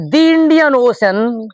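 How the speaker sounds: "the" said as "thee" before "Indian ओशन"; the before a vowel. Shown as a demonstration. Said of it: "बोला जाएगा".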